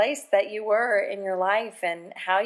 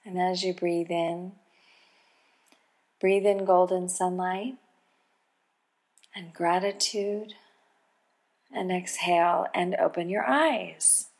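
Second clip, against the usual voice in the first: calm meditative tone. Acted. Host leads a golden pause meditation.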